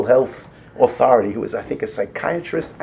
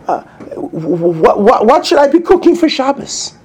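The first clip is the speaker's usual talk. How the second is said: mock question to kid; 11 semitones higher, 8 dB louder than usual. Parent asks kid mockingly.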